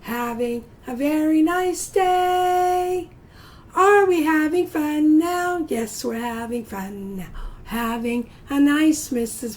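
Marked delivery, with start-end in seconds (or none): 0.0-3.1 sing-song. Shown as a demonstration. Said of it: "sing-song reply to class". 3.8-5.7 higher, louder teacher call; rally the class with a bright question; upbeat call to the kids; cheery call. Shown as a demonstration. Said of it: "repeated call to class".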